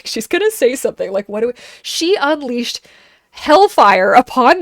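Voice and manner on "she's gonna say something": giggling prediction; amused, laughing aside. Retold or imitated. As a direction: repeat it through a laugh.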